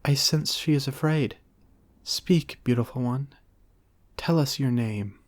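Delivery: a playful, lofty Lamb; Lamb's voice. A narrator's reading.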